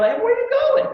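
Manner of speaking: sudden high shout from behind; mock yell. Seminar host yelling at a guest on the jet. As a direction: call out loudly to stop someone. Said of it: "I yell".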